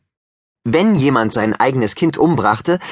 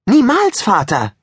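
high, louder cry on Niemals; horrified protest; 10 semitones higher, 3 dB louder than usual. Acted. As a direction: recoil and cry out in horror. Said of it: "fuhr entsetzt zurück".

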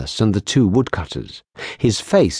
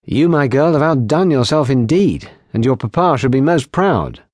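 a lightly voiced officer, higher and hearty; proud lieutenant; 4 semitones higher than usual. Lieutenant praising the barmaid, lightly voiced and hearty. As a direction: pay her a warm, hearty compliment.

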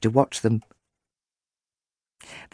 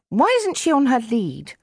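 cross question; 11 semitones higher than usual. A narrator's reading. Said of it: "Chloe asked her brother crossly".

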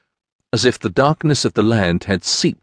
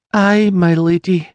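humble peasant woman; 10 semitones higher, 4 dB louder than usual. Acted. Peasant woman answers her lady.

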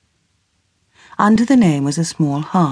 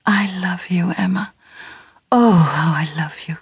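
whispered love. Acted. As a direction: breathe the words close to her ear. Edwin's whispered love declaration.

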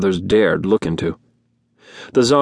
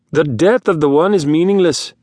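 trying to sound superior; 7 semitones higher than usual. A narrator's reading. Zarn dismissing the slaughter, lofty and superior. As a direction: say it with cold superiority. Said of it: "attempting to sound superior".

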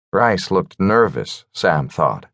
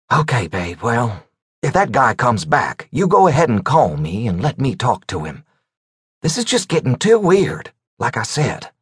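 higher, lightly voiced uneasy man; a hint of nervous reassurance; worried man voice; 5 semitones higher than usual. Rice voiced, reassuring girlfriend.

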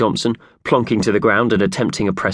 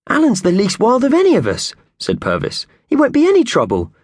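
Purvis voice; 3 dB louder than usual. A narrator's reading. Purvis reassures, narration between.

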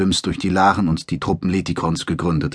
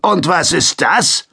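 slower, much higher sneering soldier; mocking question; 9 semitones higher, 4 dB louder, slower than usual. A narrator's reading. Sergeant shows Takson the banned book, slow mock question. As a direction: dangle the question like bait.

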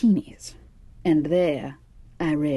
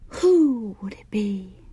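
slow, pressing whisper; urgent hushed question; insistent whisper; 3 semitones higher, slower than usual. Acted. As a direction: press for the answer under her breath. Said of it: "Fig insisted".

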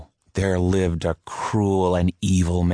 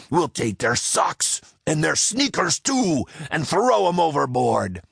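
raised, swaggering pirate boast; 6 semitones higher than usual. Acted. Pirate captain boasting to his crew about the plunder. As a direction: brag it to the crew. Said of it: "he roared".

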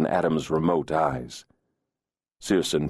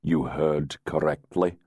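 even. Acted. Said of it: "Searson replied evenly".

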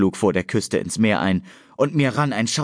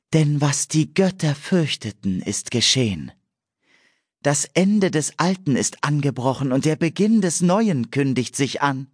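solemn prophecy; 7 semitones higher than usual. A narrator's reading. Nymph Ewan proclaiming a prophecy by the sea, high and solemn. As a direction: chant it like an entranced seer, pitched high.

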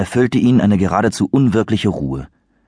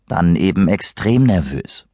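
slow, unimpressed drawl; eye-rolling; slower than usual. Acted. Kyle answers Christopher with a slow eye-roll. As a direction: roll your eyes as you say it. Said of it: "verdrehte die Augen".

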